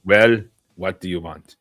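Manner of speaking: Russian accent attempt. Shown as a demonstration. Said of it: "How's that?".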